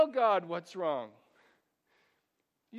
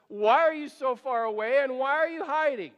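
louder, raw cry to God; pleading complaint; 4 semitones higher, 7 dB louder than usual. Acted. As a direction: let the hurt break through. Psalmist speaks to the Lord.

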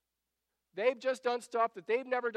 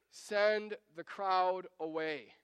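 slow, drawn-out exasperated plea; worn-out, deliberate appeal; much slower than usual. Acted. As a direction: stretch each word as if at the end of your patience. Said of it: "I can hear them being exasperated with Jesus".

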